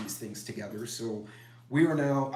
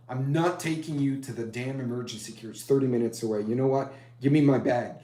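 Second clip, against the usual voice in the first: building from firm to loud by the bag line; exasperated take-charge; 7 dB louder than usual. Retold or imitated. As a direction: get louder as you decide to fix it yourself. Son-in-law takes charge.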